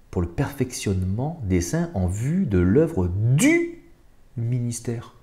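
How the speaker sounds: slowly, word by word, checking the verse; slow careful rereading. Shown as a demonstration. Rereading the verse for his listeners, slow and careful. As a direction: reread it slowly to catch the meaning. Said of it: "Attends, attends, attends, quoi?".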